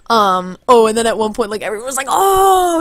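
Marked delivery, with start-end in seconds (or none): 2.1-2.8 high, loud drawn-out oh; imitated crowd reaction. Crowd reacts to troll's insult.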